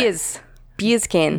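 Australian accent. Shown as a demonstration. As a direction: try it like an Australian, dropping the r. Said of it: "say beer can in Australian accent".

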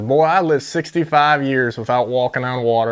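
mildly put-on down-South accent; Southern accent. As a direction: retell it with a touch of Southern accent. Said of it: "in his best little southern accent".

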